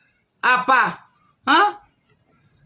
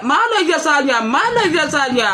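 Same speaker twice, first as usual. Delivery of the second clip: laughing mockery; 3 semitones higher than usual. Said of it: "Teriak-teriak".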